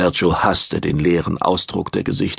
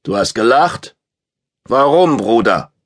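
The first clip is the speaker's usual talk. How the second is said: a touch louder, menacing brute; lightly voiced brute; 3 semitones higher, 3 dB louder than usual. A narrator's reading. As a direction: lean in with a hint of threat. Brute confronts Sergio.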